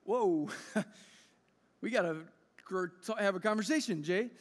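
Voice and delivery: laughing whoa. Retold or imitated. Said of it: "we're like".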